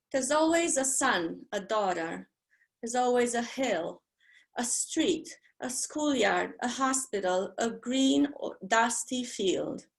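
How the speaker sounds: measured poetry reading, pausing on each image; poem reading. Acted. Poet reading her poem from the book, measured. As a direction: let each place hang a moment.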